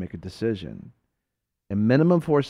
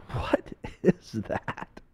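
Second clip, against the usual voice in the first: slow, softer, drawn-out puzzlement; baffled question; 5 dB quieter, much slower than usual. Retold or imitated. Man asking his friend about the noise, baffled. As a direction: stretch it out in disbelief.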